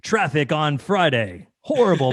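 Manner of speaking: drawn-out radio traffic announcer; imitated DJ voice. Host playfully copying the guest's announcer voice, traffic report style. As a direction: punch it like a station DJ. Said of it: "That sounded totally like it".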